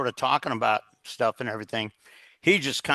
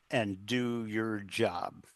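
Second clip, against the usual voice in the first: slow, soft, steady order; quiet firm instruction to the first officer; calm and quiet; 3 semitones lower, 8 dB quieter, much slower than usual. Retold or imitated. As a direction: lower the voice and settle every word. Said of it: "and very calmly".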